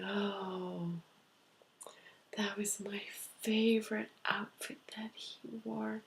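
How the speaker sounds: tearful woman. Retold or imitated. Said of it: "the lady across from me is crying".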